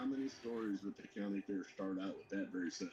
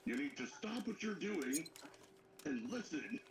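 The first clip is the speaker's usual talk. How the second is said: slow, higher-pitched mock command; mock self-important announcement; 6 semitones higher, slower than usual. Drunk firefighter announces himself to the room, mock self-important. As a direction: demand attention with drawn-out importance.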